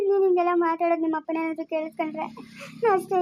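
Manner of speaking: tearful warning; crying. Acted. Mother warning daughter about father hearing, crying. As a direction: speak through tears, worried.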